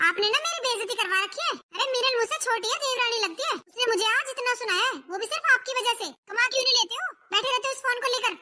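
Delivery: angry scolding. Acted. Wife scolding her jobless husband over his phone, aggrieved and angry. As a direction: berate him for the humiliation.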